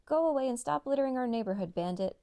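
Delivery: shouting the bandit away; barked. Acted. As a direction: bark them off the block. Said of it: "barked Mary Joe".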